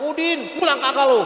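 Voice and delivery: loud threatening call; father's angry yell. Retold or imitated. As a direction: bark it at the boy. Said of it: "Bapaknya nyamperin teriak lagi". (bentakan keras ayah)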